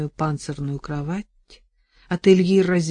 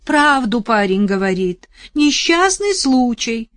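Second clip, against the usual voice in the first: loud, higher shout; 6 semitones higher, 8 dB louder, slower than usual. Acted. Вдова кричит соседке, громко. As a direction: yell it back over the fence.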